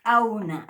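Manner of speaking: "Auna" said loudly with a glottal catch; glottal k model. Shown as a demonstration. Teacher modelling the glottalized k. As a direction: stress "Auna" with a glottal stop. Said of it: "afectado por el signo este".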